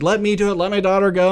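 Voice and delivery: retold mother begging; mock mother's plea. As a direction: plead to save her daughter. Mother begging for her daughter.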